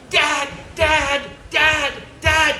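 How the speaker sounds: put-on high, loud kid voices calling Dad; whiny kids. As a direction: pester him like an impatient child. Kids pestering their tired dad.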